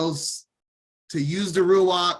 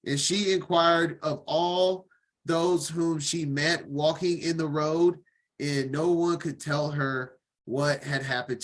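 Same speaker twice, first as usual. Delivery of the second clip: steady, measured Bible reading; formal reading-aloud voice; scripture reading; 2 semitones lower than usual. Acted. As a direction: read the passage evenly to the class.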